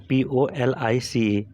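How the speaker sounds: slow, letter-by-letter spelling; measured classroom spelling. Shown as a demonstration. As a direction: spell it out with each letter separate. Teacher spelling out a word.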